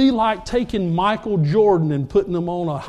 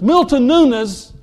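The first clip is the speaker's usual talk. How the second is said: surprised; 5 semitones higher, 6 dB louder, slower than usual. Retold or imitated. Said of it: "coach repeats name".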